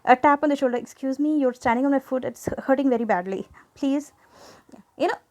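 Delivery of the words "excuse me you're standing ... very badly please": polite request. Shown as a demonstration. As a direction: ask kindly with a tap on the shoulder. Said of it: "you could just".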